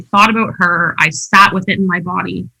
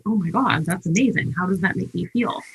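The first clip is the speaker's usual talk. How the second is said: hushed wonder; 7 dB quieter than usual. Retold or imitated. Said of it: "I was like".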